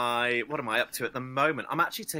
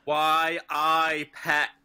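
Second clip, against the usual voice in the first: a hint of a Geordie accent, a little louder; mock Geordie; 3 semitones higher, 3 dB louder, much slower than usual. Drag queen greets the podcast hosts in mock Geordie. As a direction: toss off a light Geordie greeting. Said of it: "I wasn't gonna do an accent".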